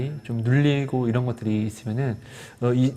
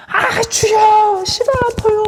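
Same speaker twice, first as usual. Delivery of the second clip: much higher and louder, a drawn-out wail to the Lord; crying out in pain; 10 dB louder, slower than usual. Retold or imitated. Pastor imitating a sick patient crying out to God, loud wail. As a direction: let it tear out of you like a patient in agony. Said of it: "시원하게 부르짖고 싶거든요".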